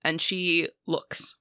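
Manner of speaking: measured, hushed-to-even scene setting; game master's narration. A narrator's reading. Game master describing the spider goddess descending, ominous narration. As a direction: unfold the eerie scene steadily, phrase by phrase.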